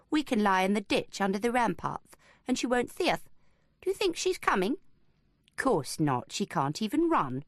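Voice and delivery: lightly voiced eager boy, rising; a hint of a scheming kid; young boy voice. Twin boys voiced in story.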